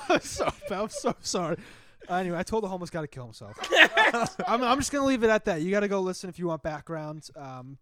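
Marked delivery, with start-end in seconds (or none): 0.1-1.6 laughing apology. Real, not acted. 2.1-5.6 laughing. Real, not acted. Laughing at own story.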